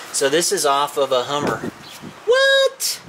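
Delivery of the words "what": surprised. Real, not acted. Sudden surprise at a find.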